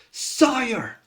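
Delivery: high, loud cry of alarm; alarmed shout. Acted. Young soldier warns his sire of invaders, alarmed shout. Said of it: "he turns around and shouts".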